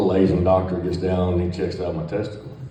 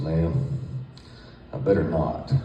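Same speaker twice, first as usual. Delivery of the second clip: slightly lower, drawn-out, suggestive tone; low slow inviting; 3 semitones lower, 6 dB quieter than usual. Retold or imitated. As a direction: lay it on slow and inviting for the nurse. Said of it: "I talked real low and real slow".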